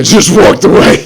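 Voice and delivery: amused, words riding on a laugh. Real, not acted. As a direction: laugh while telling it. Laughing at own story.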